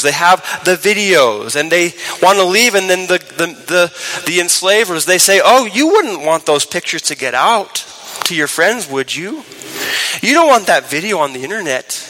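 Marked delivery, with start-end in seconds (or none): 5.4-12.0 mocking blackmailer. Enslaver blackmails trafficked child.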